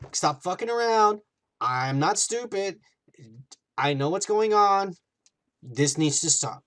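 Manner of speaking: mock-stern, emphatic scolding; fed up. Vision confronts Wanda about her pretending, fed up. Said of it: "like he's getting fed up".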